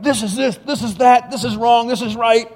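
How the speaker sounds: imitating blunt uncle. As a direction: hammer out each "this is" like there's no debate. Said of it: "he just talked just like this".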